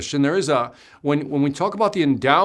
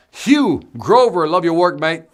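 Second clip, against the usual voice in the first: hearty shout-out; 3 semitones higher, 6 dB louder, slower than usual. Acted. Calling out a viewer's name.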